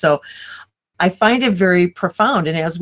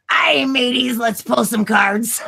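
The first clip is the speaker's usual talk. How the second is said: hearty mock pirate call, drawn out slow; a playful pirate "let's pull some cards" with a slow stretched pull; 4 semitones higher, slower than usual. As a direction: ham it up like a swaggering pirate captain. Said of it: "Say it like you're a pirate".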